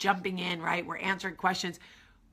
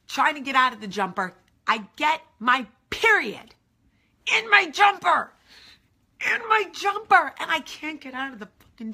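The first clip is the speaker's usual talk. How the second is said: climbing higher and louder in mock panic; rising panic; 7 semitones higher, 7 dB louder than usual. Telling the bathroom mishap, panic rising. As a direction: panic building up word by word.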